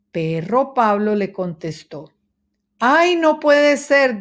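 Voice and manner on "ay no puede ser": high, loud, slow lament; dismayed mouse. A narrator's reading. Mouse dismayed about the big cup, high and loud. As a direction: wail it out like a little mouse. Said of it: "dijo Ratón Ramón".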